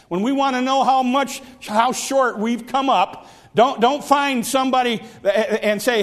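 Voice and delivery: preaching. Real, not acted. Preaches against comparing oneself.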